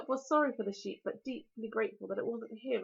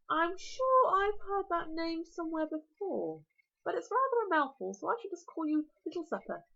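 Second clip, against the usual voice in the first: dragon voice; 4 semitones higher than usual. Acted. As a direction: relish every word like a huge dragon.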